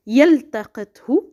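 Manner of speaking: "يلتقطه" with the ل fully sounded before ت; clarified lam. Shown as a demonstration. Teacher showing a clarified verb lam, clear l. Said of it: "Here we can pronounce lam, it is clarified".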